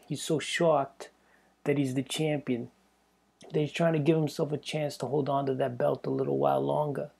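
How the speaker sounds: reading a fighter's quote with a light New York lilt; a hint of a Long Island tough guy; mild New York gangster read; New York accent. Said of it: "the way he talks is funny".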